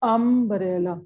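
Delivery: अम्ब्रेला drawn out, opening "um" held apart from "brella"; अम्ब्रेला broken up to expose its first vowel sound; sounding out the word. Shown as a demonstration. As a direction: say अम्ब्रेला slowly in parts, um-brella. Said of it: "sound किसकी आ रही है".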